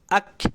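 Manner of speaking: Ak, kaf ditahan lama; kaf dipanjangkan. Shown as a demonstration. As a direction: tarik bunyi kaf di Ak panjang. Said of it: "bisa nggak sepanjang itu". (kaf yang terlalu panjang)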